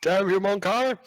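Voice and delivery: high mock villain shout; hammed-up shaken fist; sputtering foiled villain. GM echoes the fist-shaking curse.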